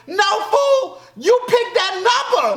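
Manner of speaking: high, loud laughing yell; yelling at screen. Real, not acted. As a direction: shout at the TV.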